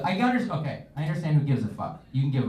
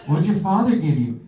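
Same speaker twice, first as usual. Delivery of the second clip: mock guest voice; 5 semitones higher, 5 dB louder than usual. Mock party guest asks.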